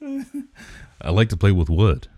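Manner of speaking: playful mock ASMR. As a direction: stretch it out teasingly for the joke. Joking slow repeat for ASMR bit.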